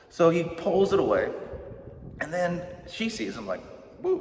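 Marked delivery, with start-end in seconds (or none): 4.0-4.2 high, hammed-up whoop of delight; a showoff's rising woo; mock whoop. Pastor voicing Jacob flexing for Rachel, high whoop.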